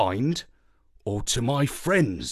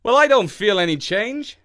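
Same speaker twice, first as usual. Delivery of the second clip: dog man voice; 8 semitones higher, 5 dB louder than usual. A narrator's reading. Marlowe voice.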